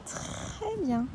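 high, drawn-out praise; sing-song "good dog" praise; praising a dog. Real, not acted. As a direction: stretch out "très" in high-pitched praise for the dog. Praising the dog during recall.

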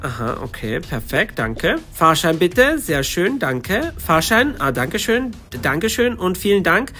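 lightly voiced train conductor, brisk and routine; a hint of a busy conductor checking tickets.

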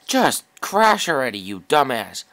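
furious, yell it at the screen; angry yell. Real, not acted. Gamer yelling at a plane that won't crash, angry shout.

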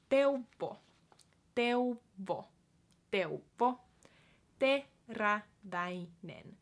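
Teräväinen said slowly, rolled r; slow syllables. Shown as a demonstration. Teacher modelling name slowly. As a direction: Teuvo drawn out. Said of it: "slow model".

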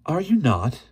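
kindly probing question; gentle question. A narrator's reading. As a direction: ask it gently, voice lifting high. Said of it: "the other asked gently".

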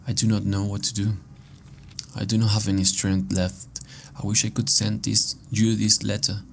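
measured, deliberate reading voice; letter read aloud. Acted. Player reads a found letter to Margaret aloud, measured reading.

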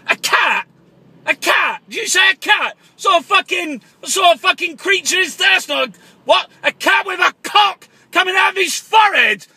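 shouting down the phone at the palace; comic angry prank caller. Acted. Caller ranting at palace servant, angry shouting. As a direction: rant at the Queen's servant like a paranoid caller.

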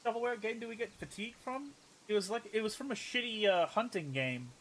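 muffled by a hand; hand over mouth. Real, not acted. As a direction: talk through your hand. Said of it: "my hand was over my mouth".

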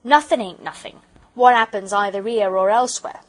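loud, offended working man with dropped aitches; emphatic, put-out porter voice; huffy porter. Acted. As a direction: play an aggrieved railway porter.

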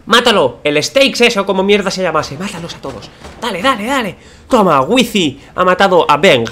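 high, loud hype shouting; excited cheering. Real, not acted. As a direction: cheer them on hard. Cheering teammates on.

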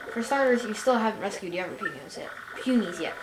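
lightly voiced defiant young puny; game characters voiced. Puny girl refusing to help until others are rescued, mildly defiant. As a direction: read her lines with a touch of attitude.

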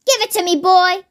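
snatch at the cup, impatient; mild yell. Acted. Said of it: "yelled Grandma".

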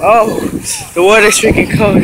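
loud, high gasping shock; shocked by cold water. Real, not acted. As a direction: cry out at the icy water.

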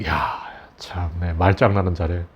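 breathy disbelieving whisper under the breath; a low, slow whispered sigh of contempt; exasperated whisper. Real, not acted. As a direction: scoff softly in disbelief. Scoffs at a newspaper's phrasing.

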